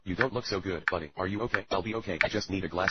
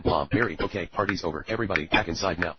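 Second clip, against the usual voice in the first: calling out; 4 dB louder than usual. Acted. Mother calling kids inside.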